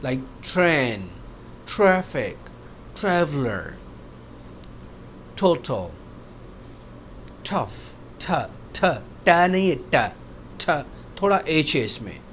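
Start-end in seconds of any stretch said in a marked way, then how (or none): 0.1-5.9 train and traffic with a ठ-like puff; T in total aspirated, light ठ. Shown as a demonstration. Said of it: "ठ है". (ट पर हल्का ह)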